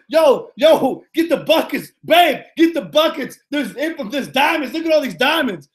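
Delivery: excited. Retold or imitated. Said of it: "I was like this".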